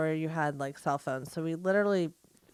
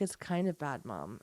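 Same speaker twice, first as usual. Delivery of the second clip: put-on soft, small child's voice fading down; a shy little daughter chiding her mom; quiet child; 4 semitones lower, 8 dB quieter than usual.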